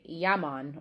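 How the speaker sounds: light Jamaican "yaman"; Jamaican patois. Shown as a demonstration. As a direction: quote it with a touch of Jamaican patois. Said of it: "Some people will say".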